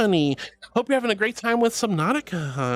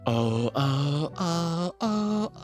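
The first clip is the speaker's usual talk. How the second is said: oh's climbing higher step by step; rising oh exercise; 5 semitones higher, much slower than usual. Shown as a demonstration. Streamer showing the climbing oh voice exercise. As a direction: raise pitch and resonance on each oh. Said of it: "keep raising your pitch and resonance and go".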